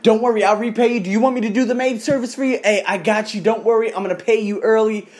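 hurried, mock-anxious reassurances; very scared. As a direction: imitate a flustered apology. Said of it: "she got very scared".

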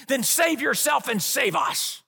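a hint of a jeering thief on the cross; mocking thief. Pastor voicing the thief's taunt at Jesus, mild mock jeer. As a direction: sneer it up at him. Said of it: "he hurled insults at Jesus".

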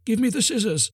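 tiny high crab voice; little green crab calling from the sea, very high and small. A narrator's reading. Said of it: "crying in a very small voice".

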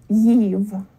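yiv with a y glide as in yeast; second syllable alone. Shown as a demonstration. Teacher isolating the second syllable, yiv with the sound of yeast. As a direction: say yiv like yield, ending in v. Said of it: "And then the second syllable".

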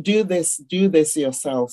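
ordinary talk, nothing marked

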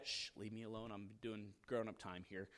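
a soft hushed shush, imitating a parent; mock-hush a kid away, quietly. Parent shushing a child during communion, hushed.

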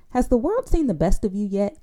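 rising question lift on "Has the world seen the best of you yet?"; lifted, curious question tune. Shown as a demonstration. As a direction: ask it like a real question, voice going up. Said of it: "different way that your voice comes out".

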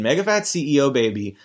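usual speaking voice

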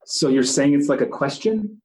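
rising question tune on the repeated words; questioning inflection. Shown as a demonstration. Reflecting the last words back to a subject as a question. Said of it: "make your voice an inflection like it's a question".

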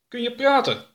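the bearded creature marvels at the tiny alien; surprised creature. Acted. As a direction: ask in wonder if it can talk. Strange creature addresses Oroka.

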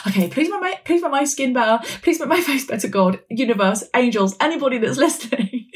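high, pleading voice with small laughs; desperate pleading. Retold or imitated. Praying in hospital to God and angels, pleading. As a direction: beg the universe to fix your face.

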